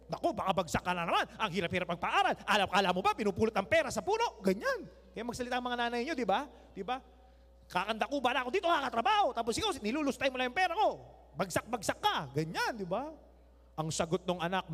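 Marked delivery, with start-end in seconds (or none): 0.1-4.4 fast, lightly louder nagging mom; mock scolding mother. Mother scolding child about grades. 7.7-12.3 fast, lightly louder nagging mom; mock scolding mother. Mother scolding child about grades.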